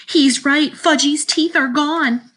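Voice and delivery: high, drawn-out alarm; screamed in dismay. A narrator's reading. Sheila confirms the teeth are gone, high alarmed cry. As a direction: announce disaster in a shrill girlish wail. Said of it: "Sheila screamed".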